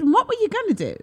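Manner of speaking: very high, squeaky question; shrill it way up in mock disbelief; squeaked mock question; wrong high take. Shown as a demonstration. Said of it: "Oh, no, I didn't say it like that".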